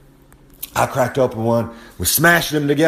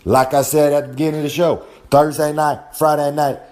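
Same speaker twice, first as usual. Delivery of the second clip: wrestling promo sign-off; 2 semitones higher than usual. Acted. Old Master plugs shirts and the tournament, promo voice. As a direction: hype the merch like a heel.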